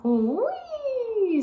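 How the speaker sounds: high, long whee of delight; gleeful whee. A narrator's reading. Old lady in a runaway car squeals with glee. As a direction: squeal with joy. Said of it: "said Baby Lincoln".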